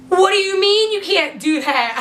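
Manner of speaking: high, incredulous challenge; mock-freaked-out question; retold alarmed disbelief. Retold panicked challenge to driver.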